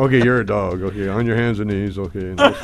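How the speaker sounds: Fifi bit. Retold or imitated. Comic telling the audience girl what to do, mild mock voice. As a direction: play the pervy dog gag half-laughing. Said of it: "then do Fifi with them".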